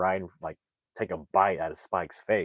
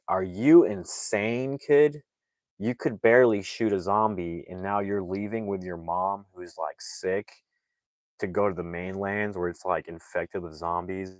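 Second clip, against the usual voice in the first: mock terrified. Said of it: "terrified outta your mind".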